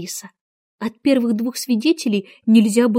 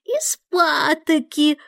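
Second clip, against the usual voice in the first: slow, sleepy mumble, higher; drowsy, half-asleep reply; 5 semitones higher, much slower than usual. A narrator's reading. Dormouse calling sleepily from behind the cook, slow and drowsy. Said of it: "сонный голос".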